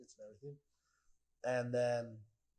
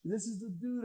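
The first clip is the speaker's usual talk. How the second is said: high loud thrilled shout, slowing at the end; excited fan; 11 semitones higher, 12 dB louder, slower than usual. Retold or imitated. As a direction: point him out to everyone. People recognize him in bar.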